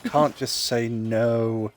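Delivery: very slow emphatic can't just say no; slow, drawn out. Shown as a demonstration. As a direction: drag out can't just say no slowly. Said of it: "slowed repeat".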